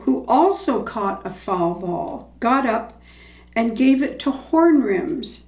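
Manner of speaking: measured, expressive read-aloud storytelling; story narration. A narrator's reading. Reading a baseball story to listeners, animated storytelling. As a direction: read it like a favorite baseball story, with dramatic pauses.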